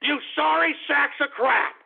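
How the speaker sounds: exasperated host berating listeners; irate insult. Real, not acted. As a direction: spit the insult at the whole audience. Angry sign-off rant at listeners.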